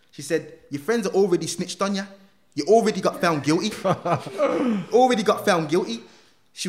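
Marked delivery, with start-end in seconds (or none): 0.7-6.0 louder, higher and laughing through it; laughing scoff. Retold or imitated. Probation officer laughing at him, amused disbelief. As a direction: laugh at how naive he is.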